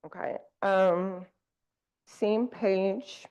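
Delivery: talking while chewing gum; chewing gum between words. Real, not acted. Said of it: "pardon me for chewing gum on the microphone".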